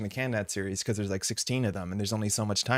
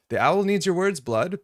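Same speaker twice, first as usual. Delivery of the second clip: mock menacing owl line; 8 semitones higher, 5 dB louder than usual. Reading a chat line in a voice.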